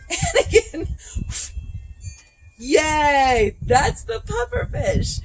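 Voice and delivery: high loud squeal of delight; puffed-up pufferfish. Shown as a demonstration. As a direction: burst out big and high like a puffed-up fish. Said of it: "Now I'm going to do it full out".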